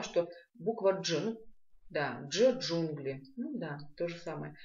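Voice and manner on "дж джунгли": дж as one rounded d-zh sound; как в «джунгли». Shown as a demonstration. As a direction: join d and zh in дж, джунгли. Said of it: "это практически то же самое". (слитное округлённое «дж, джунгли»)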